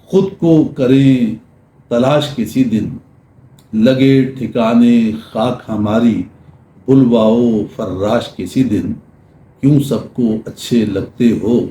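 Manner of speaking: measured, lingering poetry reading; ghazal recital. Acted. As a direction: recite the ghazal line by line, letting each refrain fall.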